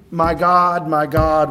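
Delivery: a touch of a wailing cry. Retold or imitated. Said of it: "He is crying".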